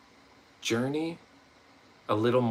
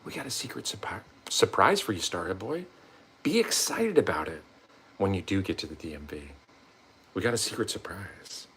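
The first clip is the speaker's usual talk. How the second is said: voicing the universe; 3 semitones lower, 5 dB quieter than usual. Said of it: "It's like".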